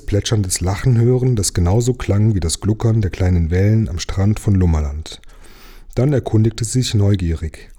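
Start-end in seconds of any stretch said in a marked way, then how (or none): none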